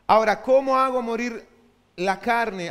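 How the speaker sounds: rising sermon shout; loud preaching call. Real, not acted. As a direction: call the question out to the church. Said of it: "preacher calls out".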